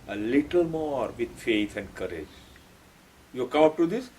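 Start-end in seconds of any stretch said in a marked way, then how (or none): 0.1-2.4 soft, low, tender urging; loving encouragement. Retold or imitated. Sri Aurobindo lovingly urging seekers on, soft and low. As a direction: coax gently, as a loving guide. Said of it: "Very lovingly says".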